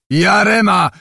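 high, loud cry of warning; one voice on the ferry crying out in alarm; alarmed shout. A narrator's reading. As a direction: scream the name in panic. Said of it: "krzyknął jeden głos".

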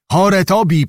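a hint of many gloomy voices; grim chorus. A narrator's reading. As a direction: echo it like a grim crowd. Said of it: "powtórzyły ponure głosy".

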